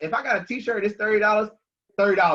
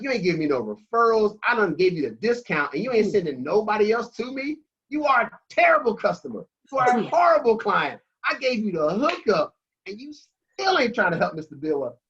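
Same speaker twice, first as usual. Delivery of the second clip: ranting at a stingy client, pitched up and loud; retold angry yell; 6 semitones higher, 4 dB louder than usual. Speaker venting at a client who never sends referrals, fired-up yell. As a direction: let it build into a full rant. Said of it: "I'm yelling".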